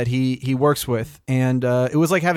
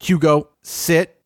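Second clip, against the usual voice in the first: timid command; much slower than usual. Retold or imitated. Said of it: "she'll be like".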